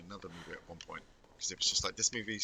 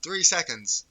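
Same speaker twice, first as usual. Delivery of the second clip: excited; 7 semitones higher, 8 dB louder, slower than usual. Real, not acted. Reacting to chase timer.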